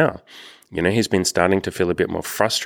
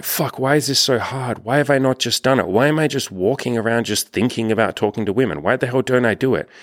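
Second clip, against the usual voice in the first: higher-pitched exasperated venting at himself; frustrated inner rant; 5 semitones higher than usual. Retold or imitated. Man fed up with himself after weeks of not approaching, higher exasperated rant. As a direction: voice the built-up frustration of pacing around for weeks. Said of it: "all the frustration has been building up".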